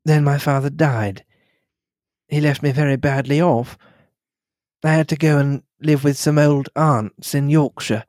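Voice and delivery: gently rebuff him with composure; lightly voiced gracious lady setting him straight; lightly voiced poised lady. Mary continues her story.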